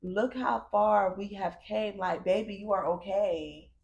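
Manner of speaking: slow, gentle reassurance to her younger self; tender to inner child. Retold or imitated. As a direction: soothe the little girl inside, slowly. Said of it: "talking to that little girl".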